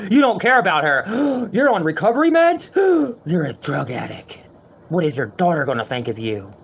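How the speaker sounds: hammed-up scolding with mock gasps; mocking sensitive trolls. Mocking YouTube commenters who scold him, hammed-up outrage. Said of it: "These people on YouTube are so fucking sensitive".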